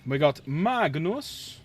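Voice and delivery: slow, drawn-out announcer voice for Magnus the Red; a hint of a grand announcer. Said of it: "Don't know why I do the voice".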